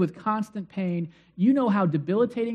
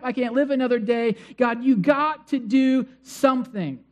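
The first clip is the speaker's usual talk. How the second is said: desperate plea to God; 3 semitones higher than usual. Retold or imitated. Paul on his knees, begging God to end his pain, in a desperate plea. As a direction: beg God like you can't take another day. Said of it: "dropped to his knees and said".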